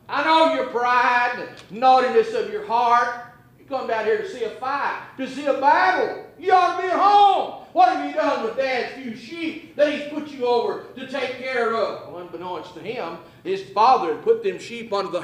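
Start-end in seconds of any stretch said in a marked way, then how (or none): 0.1-12.1 scolding brother. Retold or imitated. Older brother Eliab scolding David for leaving the sheep. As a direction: chide him like a fed-up older brother. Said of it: "begins to chide him and begins to scold him".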